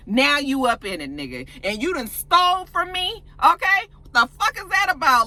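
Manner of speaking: mock-hurt, rising anger at a thief; angry confrontation.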